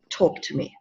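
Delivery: hushed, low invitation to talk. Retold or imitated. Comforting a sobbing boy.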